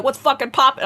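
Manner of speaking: big hyped greeting; show opening greeting. Retold or imitated. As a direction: launch the show with a laugh in it. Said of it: "I'm like".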